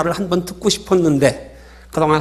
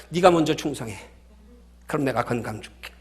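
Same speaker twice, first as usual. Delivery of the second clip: God's reply; 4 semitones lower, 5 dB quieter than usual. Acted. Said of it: "하나님 뭐라 그러신 줄 아세요".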